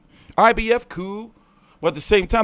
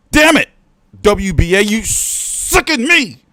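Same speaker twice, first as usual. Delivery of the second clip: exasperated outburst; 3 semitones higher, 5 dB louder, slower than usual. Real, not acted. Outburst at the WBA.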